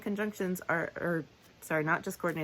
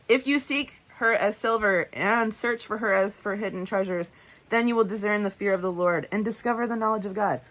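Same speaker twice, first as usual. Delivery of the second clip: higher, louder verse reading, hitting IF, AND, THEN; emphasis on conjunctions; 4 semitones higher, 5 dB louder than usual. Shown as a demonstration. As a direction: punch "if", "and" and "then" as you read. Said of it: "you'll hear me emphasize them".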